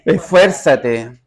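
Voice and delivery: Esfuérzate stretched out slowly; Esfuérzate drawn out very slowly; drawn-out emphasis. Shown as a demonstration. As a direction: lean hard on Esfuérzate, slowly. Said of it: "qué palabra se repite".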